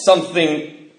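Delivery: slow, dragged-out words; words pushed out through a drunken fog; struggling to speak. Retold or imitated. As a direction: force the words out one by one, half laughing. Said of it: "struggling to get these words out".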